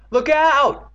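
high, loud drawn-out warning; scream. A narrator's reading. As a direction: holler a big warning. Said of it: "Evan screamed".

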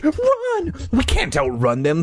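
high panicked shout. Acted. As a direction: shout in alarm. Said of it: "someone shouted".

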